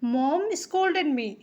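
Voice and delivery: mom scolded me stretched out very slowly; slow teacher demo; slow model sentence. Shown as a demonstration. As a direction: repeat it drawn out for learners. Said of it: "तो हम कहेंगे".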